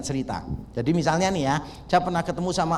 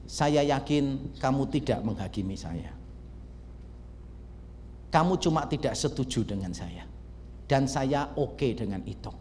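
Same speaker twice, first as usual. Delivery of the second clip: disarm him gently; gentle, reassuring; 4 semitones lower, 5 dB quieter than usual. Shown as a demonstration. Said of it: "Beda nggak sih pendekatannya?". (lembut dan menenangkan)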